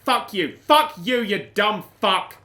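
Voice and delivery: loud, high angry outburst at the screen; furious swearing. Real, not acted. Gamer screaming at the broken game, furious shout. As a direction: yell the curses like you want to smash the controller.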